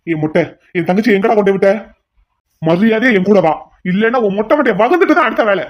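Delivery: furious threat; angry threat. Acted. Threatening the henchman.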